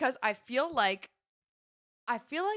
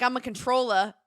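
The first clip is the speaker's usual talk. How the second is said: put-on Jersey accent; 3 semitones higher, 5 dB louder than usual. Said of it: "You weren't like".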